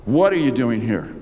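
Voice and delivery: "What are you doing here" with the opening "What" punched; stress on WHAT. Shown as a demonstration. Preacher changing the question's emphasis, "What" stressed. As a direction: hit "What" first, let the rest fall away. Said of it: "change the emphasis".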